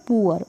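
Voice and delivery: "पुअर" as two sounds, poo-uh; oo-uh glide. Shown as a demonstration. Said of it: "अब इसको पढ़ते हैं".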